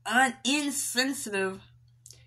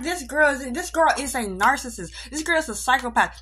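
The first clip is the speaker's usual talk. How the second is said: outraged disbelief; 4 semitones higher, 5 dB louder than usual. Retold or imitated. Retells outraged judgement of friend.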